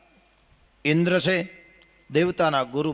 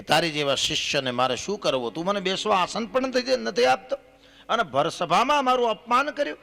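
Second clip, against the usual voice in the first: climbing, higher-pitched retold indignation; mock affronted protest; offended guru; 6 semitones higher than usual. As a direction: voice a slighted teacher's complaint, pitch rising as it goes. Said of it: "દેવગુરુ Brihaspati રિસાઈ ગયા".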